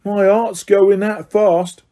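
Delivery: catching his breath after a scare; a touch of shaken Stan. A narrator's reading. Stan shaken, rubbing chest.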